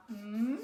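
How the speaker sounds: HMM drawn out as a hummed M; consonant sound. Shown as a demonstration. Teacher sounding M while writing it, HMM held long. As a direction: hum HMM slowly as the letter's sound. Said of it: "c'est un son consonne".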